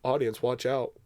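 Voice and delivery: low, quiet joking warning; hushed, half-serious menace; mock threat. Joke threat to the audience.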